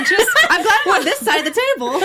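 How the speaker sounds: talking through laughter; laughing. Real, not acted. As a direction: laugh while you say it. Laughing at threat.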